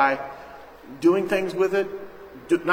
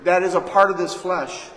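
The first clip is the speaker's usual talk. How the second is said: emphatic preaching; 3 semitones higher, 3 dB louder, slower than usual. Real, not acted. Preacher to congregation, driving home the flesh: loud and slow. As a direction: lean hard on nothing good.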